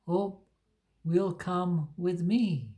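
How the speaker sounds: slow, halting attempt at a French accent; a clumsy, self-admittedly weak French accent. Voicing the French lady from the comic in a weak French accent. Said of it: "I can't do a French accent at all".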